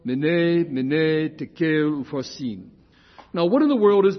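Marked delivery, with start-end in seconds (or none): 0.0-2.7 "Mene" as MEH-neh, "upharsin" as oo-FAR-sin; Aramaic pronunciation. Shown as a demonstration. Correcting the listeners with the right pronunciation. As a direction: model "Mene, mene, tekel, upharsin" clearly once more. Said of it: "Once more".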